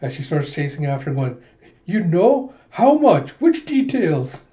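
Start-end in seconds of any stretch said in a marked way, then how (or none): 1.9-4.4 loud, high, rising interrogation; high-pitched, outraged demands; flustered demanding. Retold or imitated. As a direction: fire questions while giving chase. Alita chasing Chaos, demanding.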